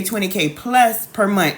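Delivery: PLUS leaned on, slow and deliberate; stress on plus. Real, not acted. Host to live viewers, slowly stressing "plus". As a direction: say "plus" with weight, drawn out a bit. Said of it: "Emphasis on the plus".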